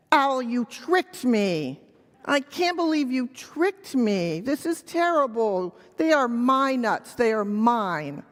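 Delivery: drawn-out storybook accusation; a touch of wounded outrage; mildly indignant monkey. Acted. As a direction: lightly play a cheated monkey. Monkey accuses owl of tricking him.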